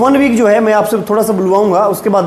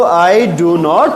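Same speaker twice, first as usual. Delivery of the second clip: slow, lower, drawn-out words; slow modelling; 4 semitones lower, much slower than usual. Shown as a demonstration. Teacher modelling the negative for pupils, slow and stretched. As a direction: spell it out slowly for beginners.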